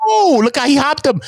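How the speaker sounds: high, loud burst of excitement; excited shout. Real, not acted. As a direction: yell out at the play. Reacting to play.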